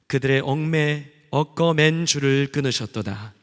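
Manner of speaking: solemn, measured Bible reading; scripture reading. Acted. Leader reading Psalm aloud to the congregation, solemn and measured. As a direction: read it out to the church with weight.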